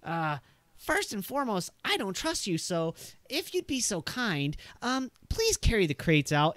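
a nervous gunman setting terms; wary NPC voice. Acted. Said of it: "he's like".

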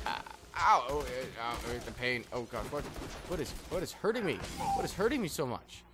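high, loud ow-ing under fire; pained yelps. Real, not acted. A player taking heavy fire, yelping high and loud. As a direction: yelp and whine as the bullets land. Getting shot in game.

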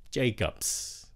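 "Jacobs" slow, with a hissed s at the end; hissed final s. Shown as a demonstration. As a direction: say "Jacobs" slowly, keep the final s. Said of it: "nhớ xì".

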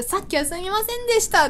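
high, sing-out friendly sorry; amiable apology. Retold or imitated. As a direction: apologize pleasantly, with no edge. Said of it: "嫌な感じじゃなくてさ、 愛想よくて".

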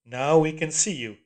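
mocking metallic echo; iron voice. A narrator's reading. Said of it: "said the voice".

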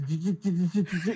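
clipped repeated chi sputter; mock his sputtering glitch; imitated sputter. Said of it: "y de momento se". (imitando chisporroteo)

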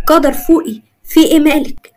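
mildly fearful, urging her to come round; frightened. A narrator's reading. Zein calls to Qadar who has fainted, mildly frightened. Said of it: "زين بخوف".

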